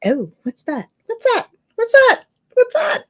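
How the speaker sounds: high, rising curious calls; playful ghostly chorus asking what's that; mock spirit voices.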